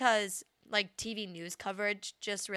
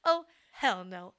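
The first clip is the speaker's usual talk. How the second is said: slow, drawn-out sassy "hell no"; sassy devil; 2 semitones lower than usual. Retold or imitated. Friend repeats the devil's refusal, slow and sassy. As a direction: lean back and refuse, slowly. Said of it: "that's a devil's quote".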